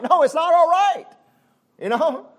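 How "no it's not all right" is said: higher, louder, it's not all right; emphatic rebuttal. Real, not acted. Preacher to congregation, emphatic loud rebuttal. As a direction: shout down the false comfort.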